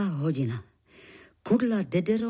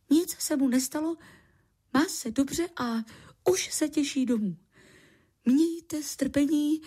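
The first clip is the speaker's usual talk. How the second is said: higher-pitched, rehearsed recital in short phrases; reciting learned text; 7 semitones higher than usual. A narrator's reading. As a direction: deliver it like memorised lines, with pauses. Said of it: "Odříkával to jako naučený text". (odříkávaný naučený text vyšším hlasem)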